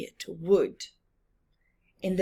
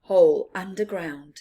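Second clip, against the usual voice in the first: lightly raised, louder mole voice; a hint of the little mole showing his home; 5 dB louder than usual. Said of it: "said the mole".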